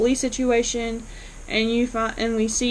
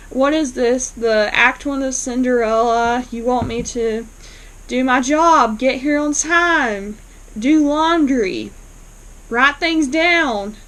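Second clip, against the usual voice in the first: retold complaint, louder and drawn out on each chore; mock indignation; 2 semitones higher, 3 dB louder, slower than usual. Receptionist complaining to her boss about chores, mock indignant. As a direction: list each chore slowly with exaggerated disbelief.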